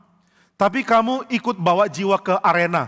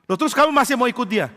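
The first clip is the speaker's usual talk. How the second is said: incredulous question; 7 semitones higher, faster than usual. Retold or imitated.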